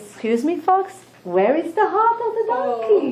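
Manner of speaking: high, pointed question with a laugh; demanding lion. Acted. Lion asks his fox servant about the heart, high and demanding.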